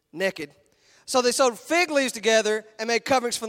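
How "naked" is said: "naked" said the Texas way, drawled as "nekkid"; Texas pronunciation. Shown as a demonstration. Preacher showing the congregation how Texans say "naked". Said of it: "so we say it like this".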